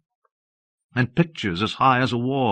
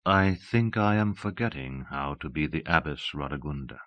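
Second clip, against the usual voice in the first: soft and unhurried, lower; a quiet, lower confession; said slowly; 5 semitones lower, 6 dB quieter than usual. A narrator's reading. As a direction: let it out slowly and softly. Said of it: "She said slowly".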